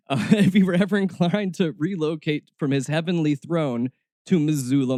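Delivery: ordinary talk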